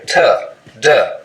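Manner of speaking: t, duh with a narrow tongue tip; tip-edge contact on t and duh. Shown as a demonstration. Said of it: "narrow edge of the tongue".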